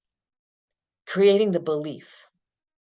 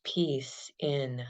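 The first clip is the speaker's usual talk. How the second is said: soft whispered cue; whispering; 4 semitones lower, 6 dB quieter than usual. Acted. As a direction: breathe the words in a whisper. Calming breath cues.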